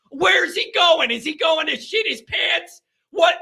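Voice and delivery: mock relatives gossiping.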